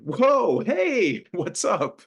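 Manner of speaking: put-on high, loud, sloppy drunken hello; drunk loud greeting. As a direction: greet him too loudly, a little drunk. Drunk Ruben greets Alonzo.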